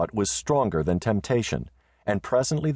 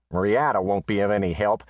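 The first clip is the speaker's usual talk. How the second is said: letter writer's voice. Acted. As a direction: state it flatly as Bates. Letter line repeated by narrator.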